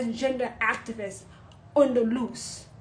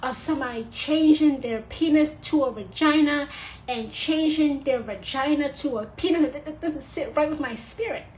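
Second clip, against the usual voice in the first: higher, louder mock churchy voice; lightly mock a prim believer; imitating a pious Christian; 3 semitones higher, 4 dB louder than usual. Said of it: "some Christians will answer that question by saying".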